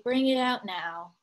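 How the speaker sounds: slowed, giving-in bring it out now; slow reluctant. Acted. Peter gives in to his mother, slow and reluctant. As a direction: drag it out, giving up on waiting. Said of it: "said Peter slowly".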